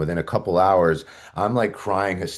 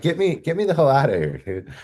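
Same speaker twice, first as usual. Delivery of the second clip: desperate plea; 9 semitones higher than usual. Retold or imitated. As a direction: plead to get out now. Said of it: "And I'm like".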